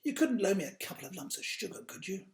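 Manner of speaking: quick, lightly voiced mouse request; a hint of a polite little mouse asking a favour. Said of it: "said George".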